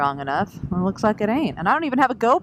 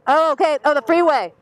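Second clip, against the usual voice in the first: surprised; 8 semitones higher, 7 dB louder than usual. Real, not acted. Surprised on motorcycle intercom.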